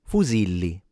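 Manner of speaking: fusilli at normal speed with a Z sound; Italian fusilli. Shown as a demonstration. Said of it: "correct pronunciation of the word".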